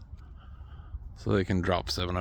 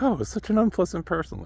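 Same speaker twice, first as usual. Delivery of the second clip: mock disapproving voice; 10 semitones higher than usual. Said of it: "and be like".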